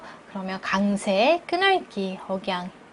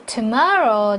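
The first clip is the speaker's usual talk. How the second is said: "Tomorrow" hit firmly; stress on Tomorrow; 4 dB louder, much slower than usual. Shown as a demonstration. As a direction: punch "Tomorrow" as key information. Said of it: "중요한 정보 강세 주시고요". ("Tomorrow"에 강세를 주어)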